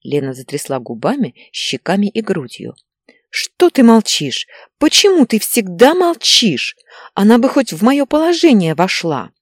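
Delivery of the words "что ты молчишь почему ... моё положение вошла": mildly exasperated, higher-pitched reproach; indignant outburst. Acted. Wife to her silent husband, indignant reproach. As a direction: demand an answer, pitch lifted.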